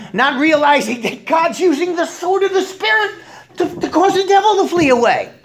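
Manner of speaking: laughing. Real, not acted. Preacher laughing through his point.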